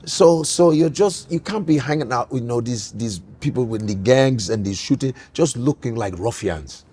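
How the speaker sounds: lightly voiced disapproving father, softening and dropping low; imitating stern father. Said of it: "he would say stuff like that".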